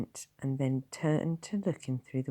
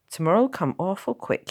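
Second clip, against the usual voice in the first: comforting; 7 semitones higher, 8 dB louder than usual. Acted. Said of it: "he added comfortingly".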